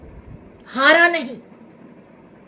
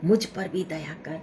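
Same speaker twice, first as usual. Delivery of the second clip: mock cry sinking to a plea; 2 semitones higher than usual. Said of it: "उसने चिल्लाया".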